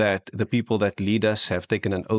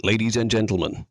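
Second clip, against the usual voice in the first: announcer demo. Shown as a demonstration. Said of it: "Don't change your accent".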